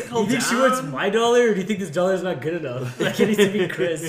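giggling, mock anxious patron; laughing mock nervous voice. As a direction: ask it nervously while laughing.

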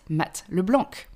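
LeBlanc with the final c sounded as k; English pronunciation. Shown as a demonstration. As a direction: say LeBlanc the English way, ending in a hard k. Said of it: "in English, you pronounce it".

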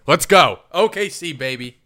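loud, high sports cheer; excited cheer. Real, not acted. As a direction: cheer the team on loudly. Cheering a basketball shot.

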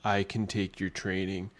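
lightly put-on Belgian accent; Jean-Claude Van Damme accent. Young student pleading with his sensei, light mock Belgian accent. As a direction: imitate an action star's accented English, only slightly. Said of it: "This is my Jean-Claude Van Damme accent".

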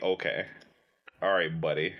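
low, skeptical brush-off; dismissive. Acted. Reacting to someone wanting to learn it that way, dismissive.

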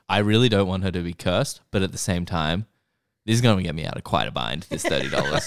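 half-laughing mock shopkeeper; shopkeeper's excuse, giggling. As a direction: read it through a laugh as the shopkeeper.

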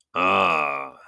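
slow, menacing goblin king; great goblin voice. Acted. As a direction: drawl it out like a goblin chief.

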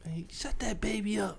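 hushed whisper, slow. Real, not acted. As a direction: keep it down so neighbors can't hear. Whispering about neighbors.

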